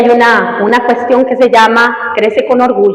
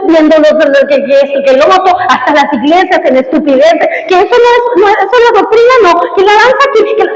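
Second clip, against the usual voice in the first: raised, exasperated voice mocking petty church fights; exasperated mockery; 6 semitones higher than usual. Pastor recalls his own exasperation at churches, exasperated mock. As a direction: scoff at the bickering, pitch up high.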